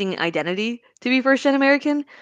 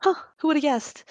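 dramatic; 8 semitones higher, 6 dB quieter than usual. Acted. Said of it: "like, dramatic".

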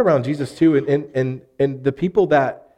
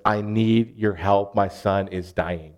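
desperate plea; 4 semitones lower, slower than usual. Acted. Father begging Jesus for his son.

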